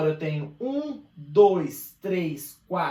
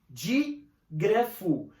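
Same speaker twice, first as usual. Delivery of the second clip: slow, stretched out; much slower than usual. Shown as a demonstration. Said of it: "Di já vem de dois".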